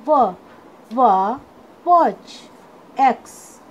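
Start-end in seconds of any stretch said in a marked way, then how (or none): 0.1-1.0 व as a lone "wuh", said separately; phonic letter sound. Shown as a demonstration. Teacher showing students the sound of W, phonic letter sound. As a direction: sound out व as W starts "watch". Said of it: "डब्ल्यू का sound होता है".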